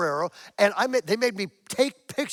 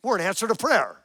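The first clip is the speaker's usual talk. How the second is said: blurted out; 3 semitones higher, 6 dB louder than usual. Retold or imitated. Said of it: "here he blurts this out".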